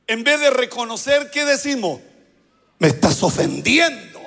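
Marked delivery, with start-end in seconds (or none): 2.8-4.2 lower-pitched wounded protest, rising at the end; mock offended. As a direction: act affronted by the accusation. Acted denial by accused liar.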